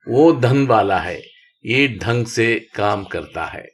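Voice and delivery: teacher reads slowly for the class; slow reading aloud. Shown as a demonstration. Teacher reading practice lines to students slowly. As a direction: read slowly, word by word. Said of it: "reading practice sentences".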